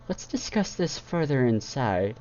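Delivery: commanding. A narrator's reading. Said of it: "Celestia commanded".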